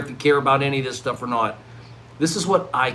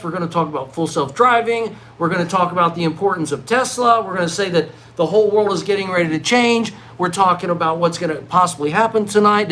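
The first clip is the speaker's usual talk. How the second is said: mock keynote speech; 4 semitones higher than usual. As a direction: pitch it like a stage presenter at a family reunion. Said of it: "I'm like".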